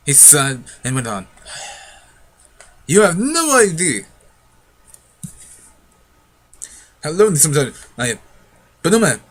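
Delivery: a hint of a lonely old man pleading; lightly voiced old uncle. Old uncle coaxes the children to stay, lightly voiced. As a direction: coax the children to stay, mildly.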